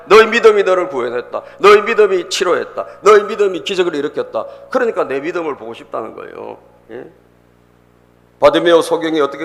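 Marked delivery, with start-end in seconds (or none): 0.1-4.5 emphatic proclamation. Real, not acted. Preacher proclaims repeated declarations.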